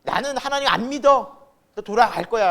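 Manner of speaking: performed angry refusal; blurted defiance. Acted. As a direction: act out rash words flung at God. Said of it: "그 중요한 말들을 막 내뱉는".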